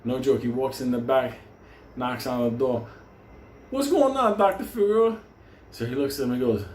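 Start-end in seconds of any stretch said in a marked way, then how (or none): 3.7-5.2 mock cheery greeting. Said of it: "Benny goes".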